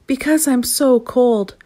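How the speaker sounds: high, slow, drawn-out shout; complaining shout. A narrator's reading. Freezing gnome answering the otter, shouting. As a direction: shout it out, stretching the words. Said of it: "shouted the gnome".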